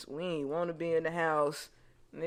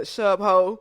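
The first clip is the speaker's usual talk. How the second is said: mimicking a child; 3 semitones higher, 9 dB louder than usual. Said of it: "kept saying".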